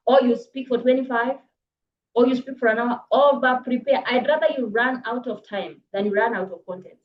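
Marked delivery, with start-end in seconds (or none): 3.1-4.0 over prepare, over stressed and firm. Shown as a demonstration. Coach urging speakers to prepare, stress on over. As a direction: hit the word over hard. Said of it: "By the way, I say this".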